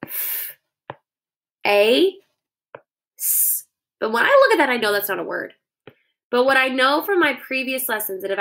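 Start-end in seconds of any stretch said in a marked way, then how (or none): 0.0-3.6 "f, a, s" each sound alone. Shown as a demonstration. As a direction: stretch out "f, a, s". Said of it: "I'm hearing".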